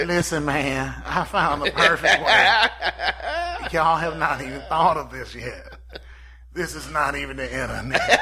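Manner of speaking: lightly voiced, laughing inventor with trembling voice; a mock-grand genius announcing his discovery through laughter; Terrence Howard impression. Mocking Terrence Howard to podcast friends, laughing impression. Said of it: "Somebody tremble in your voice, Terrence".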